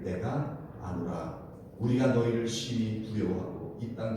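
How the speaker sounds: slow, low, measured verse reading; scripture reading. Acted. Preacher reads Rahab's confession to the congregation, slow and low. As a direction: read the verse slowly and solemnly.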